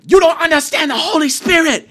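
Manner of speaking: high, very loud screamed impression with an Asian accent; screaming Asian kid. Suited student screams at a guy about religion, Asian accent. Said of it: "he's screaming this at this guy".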